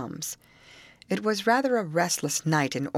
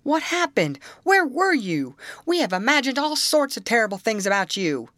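high, loud alarmed questioning; worried outburst, raised pitch and volume; 7 semitones higher, 4 dB louder than usual. A narrator's reading. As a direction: demand answers in alarm. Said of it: "greeted her and the others with alarm in his tones".

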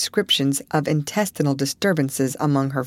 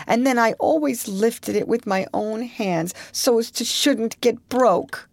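high, tearful and slowing; 7 semitones higher than usual. A narrator's reading. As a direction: voice breaking, near tears. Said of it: "Her voice broke".

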